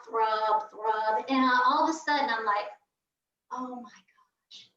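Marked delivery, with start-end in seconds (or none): 3.5-4.7 slow, breathy hush of dread; hushed slow oh-no moment; dawning realization. Retold or imitated. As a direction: let it sink in quietly. Sudden realization while bleeding.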